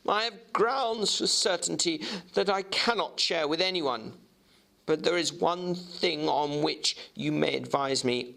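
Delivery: Jekyll's voice. Acted.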